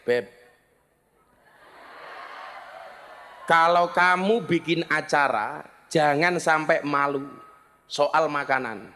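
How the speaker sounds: measured husbandly advice; advising his wife. Retold or imitated. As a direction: take your time, like gently advising a spouse. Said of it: "saya selalu bilang sama istri saya".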